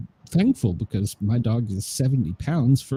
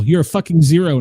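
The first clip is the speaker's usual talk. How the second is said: angry jab; 4 semitones higher, 5 dB louder than usual. Retold or imitated. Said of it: "I said".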